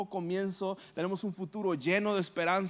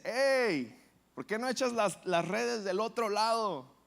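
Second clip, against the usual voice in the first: a touch raised, calling across the water; calling from afar; 4 semitones higher than usual. Acted. Jesus calls to Pedro from the shore, mildly raised call. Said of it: "de lejos le grita".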